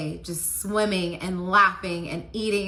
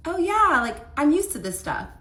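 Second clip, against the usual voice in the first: mock blasé; 9 semitones higher, 4 dB louder than usual. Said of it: "be like".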